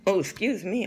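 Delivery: hiccup just before speaking; hiccuping apology. Real, not acted. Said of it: "I got the hiccups".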